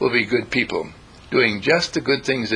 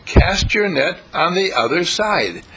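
confident; 3 semitones higher than usual. Retold or imitated. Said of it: "in his confident understanding of himself".

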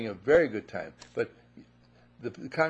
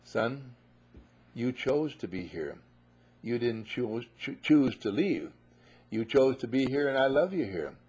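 gentle father. Acted. Father answering the son.

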